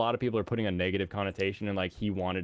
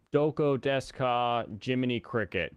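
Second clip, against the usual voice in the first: awkward tourist Japanese; 3 semitones higher than usual. Retold or imitated. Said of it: "so it sounded awful".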